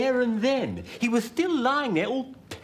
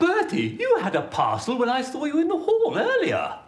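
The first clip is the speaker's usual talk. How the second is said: laughing; 4 semitones higher than usual. Acted. Laughing at Bertie.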